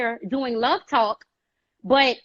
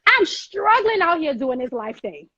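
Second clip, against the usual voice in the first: 1 pleading prayer; 4 semitones higher than usual. Retold or imitated. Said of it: "go to my creator and say".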